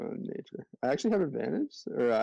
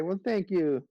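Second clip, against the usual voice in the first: chipmunk voice; 6 semitones higher than usual. Acted. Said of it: "I'm gonna speak in, uh, chipmunk".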